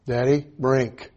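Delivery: put-on slow toddler's plea for a drink; child asking. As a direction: ask Daddy slowly like a small boy.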